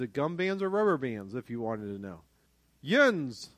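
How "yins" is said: Pittsburgh "Yins"; Pittsburgh dialect. Shown as a demonstration. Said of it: "That's a Pittsburgh thing".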